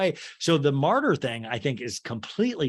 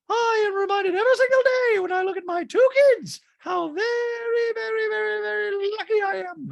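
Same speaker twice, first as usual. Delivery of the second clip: much higher robot voice with a mock cry; hammed-up droid tearing up over her kids; C-3PO-style teary Dorit; 6 dB louder than usual. Dorit voiced, teary reunion answer.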